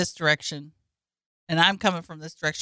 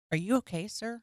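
calm, patronizing; 11 dB quieter than usual. Retold or imitated. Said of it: "I stayed so calm".

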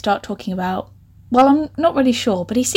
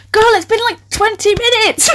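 high, loud, incredulous outburst; exasperated protest; 12 semitones higher, 4 dB louder than usual. Real, not acted. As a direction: protest in amused disbelief, slowing on the punchline. Exasperated reaction to the story.

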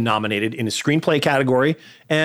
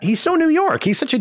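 emphatic. Real, not acted. Insists Dafoe sounds New York.

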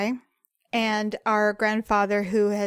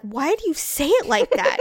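higher, exasperated challenge; exasperated question; 5 semitones higher than usual. Retold or imitated. Challenging her partner on his pronunciation, exasperated. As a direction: demand an explanation, pitched up. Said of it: "I'm like".

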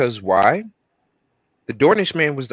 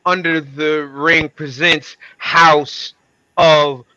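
booming slow circus announcer; ringmaster; 4 dB louder than usual. Pretend. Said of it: "let me stop talking like that".

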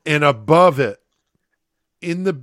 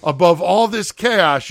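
normal talking voice

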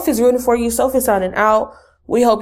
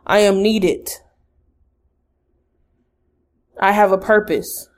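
measured, even affirmations with long pauses; guided affirmations. Acted. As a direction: say each line steadily, leaving room to repeat. Leads affirmations to repeat.

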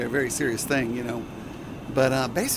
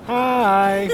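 high, louder sweet sing-song Hi; 6 semitones higher, 5 dB louder than usual. Shown as a demonstration. Crew member doing the practiced hi, sing-song. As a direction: sing the greeting up brightly. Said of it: "practicing the hi".

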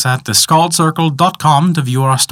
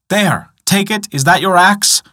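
lightly voiced old man, pitched up; offering old man; 8 semitones higher than usual. A narrator's reading. Old man holds out an axe head, raised offering voice. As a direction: offer it brightly with a raised question.

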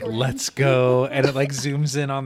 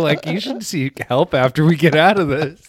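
louder, mocking disbelief; incredulous guys; 3 semitones higher, 6 dB louder than usual. Two guys doubting the self-hating answer, loud and mocking. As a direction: call him out loudly, half-joking. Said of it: "the other two guys are like".

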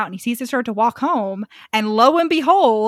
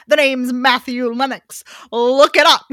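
cocky hero boast; 5 dB louder than usual. Retold or imitated. Voicing Matthew's cocky boast.

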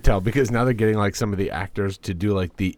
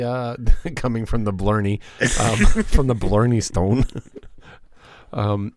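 laughing through the news; 2 semitones higher, 5 dB louder than usual. Real, not acted. Laughing while reading news.

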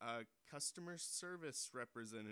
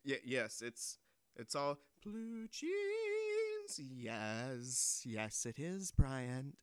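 genie; 6 dB louder, much slower than usual. Acted.

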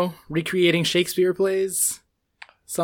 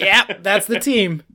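mock Australian; 5 dB louder, slower than usual. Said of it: "an Australian person to be like".

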